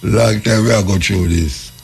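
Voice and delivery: slow, amused, laughing repeat. Real, not acted.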